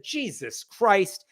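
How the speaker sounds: slow, stretched mock oath; drawn-out exasperation; exasperated swearing. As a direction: imitate the kid's annoyed exclamation. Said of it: "It's the way he said it".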